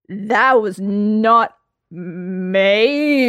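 put-on gleeful, drawn-out drunk accusation; excited interrogation. A narrator's reading. Drunk Lambert grilling Geralt, gleeful and drawn out. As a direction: pounce on the slip and savour it.

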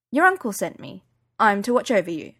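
polite Yorkshire bodyguard, lightly voiced; a hint of Yorkshire, courteous; Yorkshire accent. Bodyguard greeting Miss Watson at the door, light Yorkshire accent. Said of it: "He had a Yorkshire accent".

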